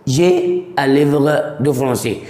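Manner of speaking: جي أليفر دو فرونسي said slowly, linking أ into ليفر; carefully linked model sentence, syllable by syllable; teacher sounds out the liaison slowly; slow liaison demo. Shown as a demonstration. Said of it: "هنا أقول".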